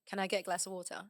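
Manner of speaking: said the British way; British accent. Shown as a demonstration. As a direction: ask it in a natural British accent. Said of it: "I used to say".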